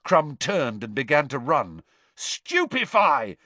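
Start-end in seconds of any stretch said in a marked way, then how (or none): 2.2-3.4 high, loud, drawn-out yell; yelling a spell. A narrator's reading. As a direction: shout the spell with force. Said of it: "Harry yelled".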